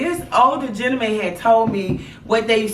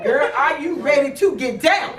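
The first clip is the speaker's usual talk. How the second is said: higher, playful retold taunt; teasing mother; 4 semitones higher than usual. Mother teasing her pregnant daughter, playful taunt. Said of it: "So I started yelling at her".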